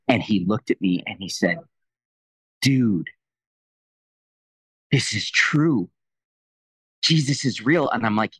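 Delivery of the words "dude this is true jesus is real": higher pitch with long pauses; retold amazed realisation. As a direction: let each phrase land as a revelation. Retold friend's moment of realisation.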